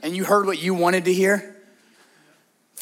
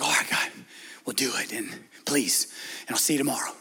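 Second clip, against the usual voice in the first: mumbled quick prayer; 9 semitones lower, 10 dB quieter, faster than usual. Retold or imitated. Mocking rushed prayer.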